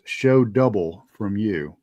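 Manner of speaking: slow, lightly imitated fading voice; mildly weary, drawn-out delivery; running out of energy. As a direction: read it slowly, as if energy is draining. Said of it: "like it's running out of energy".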